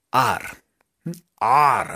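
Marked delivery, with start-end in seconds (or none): 1.4-1.9 ARE drawn out as if teasing a crush; lingering, playful ARE with a drawn-out r; flirty growled are. Shown as a demonstration. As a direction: say ARE like showing off to someone you fancy. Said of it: "como si le estuvieran haciendo fieros".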